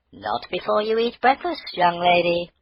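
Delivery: mother stopping her daughter at the door; stern mother. Acted. Mother scolds Maggie.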